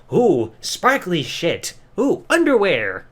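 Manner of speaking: slow sarcastic ooh of fake wonder; mocking ooh. Reviewer mocking a magic act with slow sarcastic awe. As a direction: drawl it out in mock amazement.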